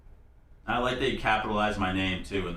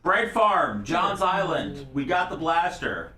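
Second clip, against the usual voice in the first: higher, slow mock-sexy voice; sultry narrator; 8 semitones higher, 4 dB louder, slower than usual. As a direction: draw it out in a hammed-up sexy voice. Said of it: "Sensei Beaver in your sexy voice".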